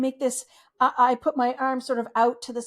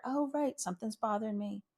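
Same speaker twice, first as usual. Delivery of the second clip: soft, quiet self-acknowledgment; gentle noticing; 2 semitones lower, 6 dB quieter than usual. Shown as a demonstration. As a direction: notice it kindly, under your breath. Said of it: "just the little gesture".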